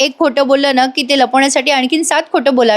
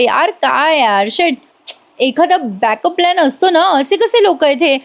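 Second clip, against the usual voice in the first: fed-up rant; 5 semitones higher than usual. Retold or imitated. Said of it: "ती अशी बडबडत असते वेड्यासारखी".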